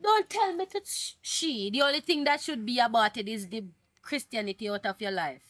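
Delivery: mother outraged at the abortion suggestion, snapping back; indignant. Acted. Mother rebuking the other woman, outraged and high.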